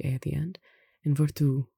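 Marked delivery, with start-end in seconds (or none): 1.2-1.7 "virtù" stressed on the last U; final stress. Shown as a demonstration. Teacher shows written accents, stress on the U. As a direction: lean on the final syllable of "virtù". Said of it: "which has the accent on the U".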